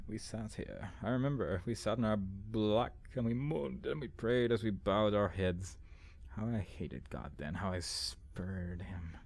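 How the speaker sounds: slow, brooding read-aloud; dramatic journal reading. Acted. Player reading a journal of lost faith, slow dramatic reading.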